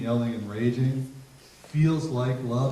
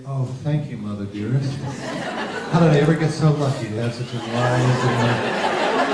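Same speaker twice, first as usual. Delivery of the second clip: hammed-up gushing, building louder; mock gratitude; 6 dB louder than usual. Daughter thanks mother for saying no, mock gratitude. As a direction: overplay the thankful child until it's absurd. Impossibly grateful teen, sarcastic.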